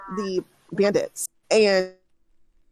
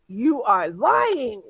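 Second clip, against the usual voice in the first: slow, deliberate accusation; stern accusation; 3 semitones higher, much slower than usual. Acted. Bandit leader slowly calling Zayden a liar. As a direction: spell out that he's lying.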